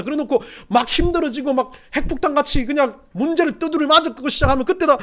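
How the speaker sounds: high, loud, driving sermon delivery; impassioned preaching. Acted. Preacher warns the congregation that prayer disappears, impassioned preaching. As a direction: preach it at full force.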